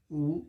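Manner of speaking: a bare "उ" vowel with no w glide; wrong sound. Shown as a demonstration. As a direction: clip the "उ" short like the wrong reading. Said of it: "ये वाला उ नहीं". ("उ" को गलत ढंग से, बिना व के)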